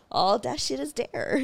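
drawn-out sign-off. Retold or imitated. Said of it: "the way I said".

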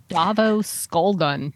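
slow, savouring each syllable; drawn-out name. Real, not acted. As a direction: roll the name out slowly like a gangster.

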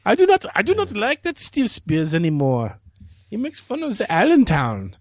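high, drawn-out mock complaint; put-on complainer. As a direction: whine as an offended listener, hammed up. Mimics listener's complaint in put-on voice.

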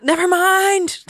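high, loud, slow mock defeat; dramatic never mind. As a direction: drag it out as if giving up. Mock giving up on herself.

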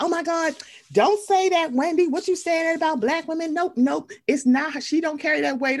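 high, clutching-pearls mock outrage. Imitating fans defending Wendy, high mock outrage. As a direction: play the scandalised fans, pitched high. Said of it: "people are like".

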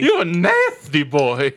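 slow, laughing; laughing tease. Real, not acted. Teasing, laughing.

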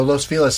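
"Los Feliz" ending in s, FEE-liss; s-sound pronunciation. Shown as a demonstration. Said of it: "you're giving it a S sound".

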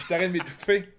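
s'étouffe en parlant; voix étranglée, toussote; choking. Real, not acted. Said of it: "je m'étouffe trop". (en train de s'étouffer)

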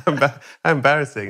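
quick words through a laugh. Real, not acted. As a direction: giggle while getting the phrase out. Laughs inside own absurd story.

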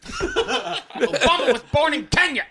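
high slow redneck voice; a laughing redneck rant. Shown as a demonstration. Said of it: "the redneck that I try to be".

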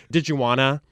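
DID YOU fused into "didja" before WANNA; run-together "didge". Shown as a demonstration. Showing the host Michigan didges, DID YOU fused together. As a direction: say DID YOU WANNA as one blurred word. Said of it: "We're really big on the didges".

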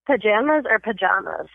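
"Pajamas" first with JAM, then with JAH; two pronunciations. Shown as a demonstration. Host quizzing a guest, "Pajamas" said both ways. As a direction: offer both vowels, puh-JAM-uz or puh-JAH-muz. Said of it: "I have a pronunciation test".

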